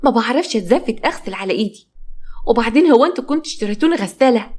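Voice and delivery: fed-up wife snapping back at her sister-in-law; nervous and agitated. Acted. A wife fed up with chores, agitated and upset. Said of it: "حنين بعصبية وبانفعال".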